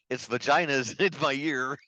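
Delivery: slow quote broken by laughter; slowed, laughing retelling; laughing through a quote. Retold or imitated. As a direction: giggle through the line while retelling it. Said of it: "he's like".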